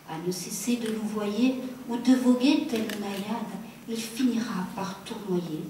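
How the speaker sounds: measured poetry reading with pauses between phrases; poem recitation. Acted. Poet reads own love poem to audience, measured recitation. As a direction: recite the verse deliberately, line by line.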